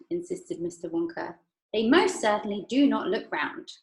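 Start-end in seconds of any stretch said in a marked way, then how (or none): 1.7-3.7 Veruca crying out. Acted. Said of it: "cried Veruca Salt".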